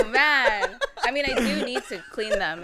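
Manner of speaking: loud, amused groan into words; laughing admission. Real, not acted. Guest teased about dirty boots, laughing along. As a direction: own up through a laugh.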